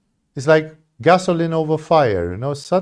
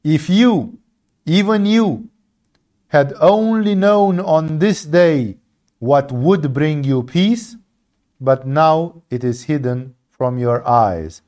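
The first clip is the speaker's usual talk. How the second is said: 1 lament; slower than usual. Retold or imitated. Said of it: "And said".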